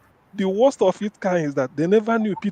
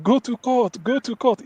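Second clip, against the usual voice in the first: mock shouting; 7 semitones higher than usual. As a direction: imitate their shouting in a raised pitch. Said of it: "They will shout".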